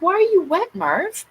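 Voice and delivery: high surprised call to the cat; rising, worried question to a kitten; surprised pet talk. Retold or imitated. Talking to her wet cat.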